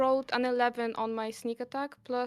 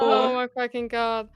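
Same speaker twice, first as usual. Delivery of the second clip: excited; 2 semitones higher, 8 dB louder than usual. Real, not acted. Natural twenty excitement.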